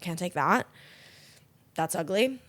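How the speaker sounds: low, soft, unimpressed rejection; understated mock disdain; dismissive clerk. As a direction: reject it quietly as a snooty clerk. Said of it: "And they're like".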